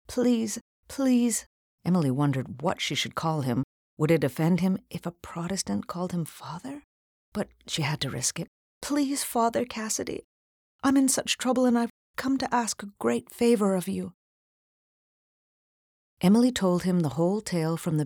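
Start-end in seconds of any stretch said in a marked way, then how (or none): 0.1-1.4 pleading. A narrator's reading. Girl begging the priest. 8.8-14.1 higher, urgent begging plea; pleading girl. A narrator's reading. Girl begging the priest for a favor, high urgent plea.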